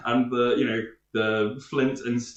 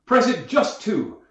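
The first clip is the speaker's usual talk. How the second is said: gentleman voice; 4 dB louder than usual. Acted.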